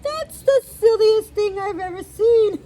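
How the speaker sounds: high, loud amused cow voice; incredulous storybook cow, climbing in pitch; cow character. A narrator's reading. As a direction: rise into high-pitched disbelief at something silly. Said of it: "But what she thought was".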